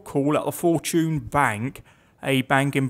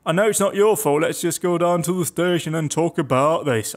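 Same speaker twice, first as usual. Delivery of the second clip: a touch of Yorkshire, pitched up; Yorkshire bloke; 3 semitones higher than usual. Acted. Police officer to suspect about going to the station, light Yorkshire accent. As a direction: talk him down as a Yorkshire bloke. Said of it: "I thought that was a Yorkshire bloke".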